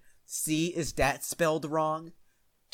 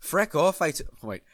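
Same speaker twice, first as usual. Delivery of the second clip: snapping; 4 semitones higher, 7 dB louder than usual. Acted. Goth snapping at Hagrid.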